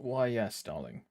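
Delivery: a quick hint of upper-class English; posh accent. Shown as a demonstration. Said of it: "Can you do posh accent?".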